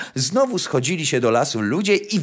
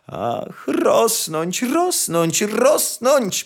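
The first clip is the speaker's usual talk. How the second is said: yearning repetition; 10 semitones higher, much slower than usual. A narrator's reading. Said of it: "powtarzała".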